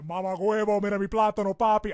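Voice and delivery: put-on loud, hammy Latino accent. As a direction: belt it in an over-the-top Latino accent. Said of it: "even if I have to do the Latino accent".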